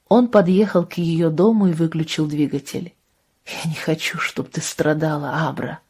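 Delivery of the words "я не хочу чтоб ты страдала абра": much softer, gentle plea; tender. Acted. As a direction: say it softly, caring for her. Джошуа мягко утешает Абру. (нежно, тихо Джошуа Абре у дома)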